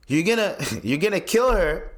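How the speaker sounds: disbelieving laugh breaking into the words. Real, not acted. Vlogger laughing at the squatters' logic, a real laugh. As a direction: laugh at how absurd it is. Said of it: "I'm laughing because it's like".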